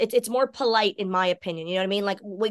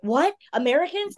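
excited; 5 semitones higher than usual. Retold or imitated. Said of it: "I just get so excited".

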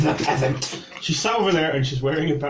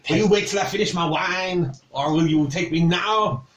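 put-on indignant French accent, slightly raised; 4 semitones higher than usual. Cook asks the knight about taking her away, French accent. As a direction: challenge him in a French accent. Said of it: "you can do a French accent".

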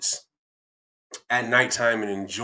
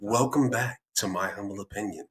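radio host voice. Shown as a demonstration. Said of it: "if I should talk like this".

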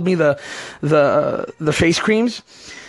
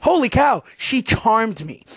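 amazed. Retold or imitated. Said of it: "I was just like".

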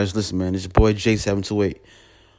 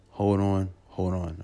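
fading; 3 semitones lower, 6 dB quieter than usual. Real, not acted. Repeated plea, fading out.

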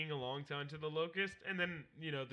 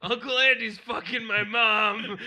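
mock kid; 5 semitones higher, 14 dB louder, slower than usual. Mock kid line about Uncle Andy.

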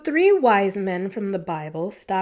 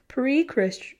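tripping over the word, breath catching; catching breath midword; 3 semitones higher than usual. Real, not acted. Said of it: "Why was that so hard to say?".

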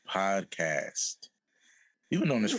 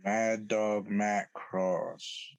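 ring announcer; much slower than usual. Acted. Hyping wrestler's name, ring announcer.

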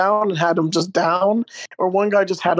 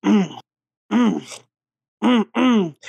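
short hummed grunts, spaced out; imitated dancing grunts; 2 semitones higher, slower than usual. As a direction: mimic a man grunting along to his dance. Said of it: "then he just starts dancing".

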